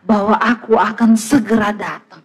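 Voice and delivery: voice of the Lord. Retold or imitated. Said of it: "Tuhan bilang".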